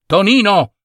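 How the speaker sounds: mother's cry. A narrator's reading. Mother calling her son from balcony, mild cry. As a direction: call a child in from the balcony. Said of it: "gridò in quel momento la mamma".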